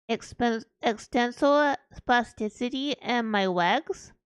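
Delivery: put-on cutesy baby talk telling a story; Uwu voice. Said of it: "do it Uwu voice starting for five minutes".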